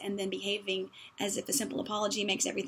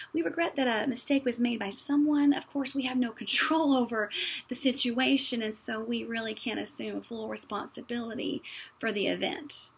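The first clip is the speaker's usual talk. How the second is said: mock political apology. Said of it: "And it goes something like".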